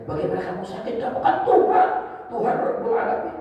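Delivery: high-pitched puzzled protest; bewildered questioners. Retold or imitated. The puzzled crowd questions God, high incredulous voice. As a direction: voice their bafflement, pitch climbing steeply. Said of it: "Mereka bertanya".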